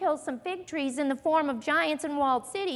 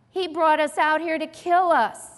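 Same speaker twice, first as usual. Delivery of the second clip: louder mock grumbling; 7 dB louder than usual. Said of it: "They say things like".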